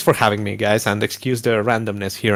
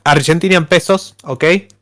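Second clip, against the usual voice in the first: Spanish accent; 3 semitones higher than usual. Shown as a demonstration. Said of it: "with a Spanish accent".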